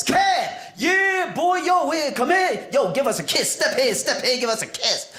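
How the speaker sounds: high, shouting grandma calling him in; overjoyed grandma greeting her grandson; excited grandma. Retold or imitated. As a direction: squeal like a thrilled grandma at the door.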